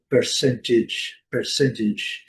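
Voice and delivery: percentage in American English, R sounded. Shown as a demonstration. Teacher models American English for learners, American pronunciation. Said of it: "E no inglês americano".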